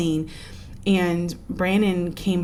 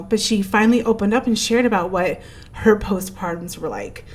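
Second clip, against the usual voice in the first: a touch of emotion rising, then dropping away; moved, holding it together as the voice sinks; getting emotional; 3 semitones higher than usual. Real, not acted. Granddaughter recalls grandmother opening up, getting emotional. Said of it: "I'm gonna get emotional".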